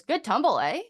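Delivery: mock toddler cheer; imitating a little girl. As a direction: play the kid proudly checking in. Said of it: "she goes".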